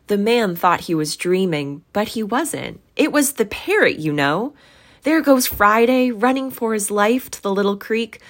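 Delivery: loud, lively, climbing high in places; excited retelling. A narrator's reading. Scrooge relives Friday running for his life, excited. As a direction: tell it eagerly, pitch leaping up.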